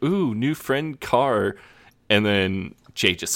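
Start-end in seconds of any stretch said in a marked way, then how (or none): 0.0-1.5 higher, slow taunting coo; drawn-out mocking coo; slow teasing sing-song. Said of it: "Simon and Neil start like".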